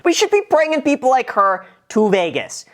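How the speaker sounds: high-pitched rallying call to viewers; playful sales plea, coming down at the end; excited appeal. Real, not acted. Calling viewers to come to Vegas.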